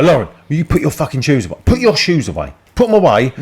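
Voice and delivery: retold exasperated parent; mock telling off. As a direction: nag a kid about her shoes. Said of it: "I said to her".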